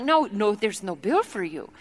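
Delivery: gently insistent, faked Congolese accent; mock Congolese accent. Tea lady refuses to charge guest, soft mock Congolese accent. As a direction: softly imitate her Congolese accent. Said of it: "her accent sounded nothing like this".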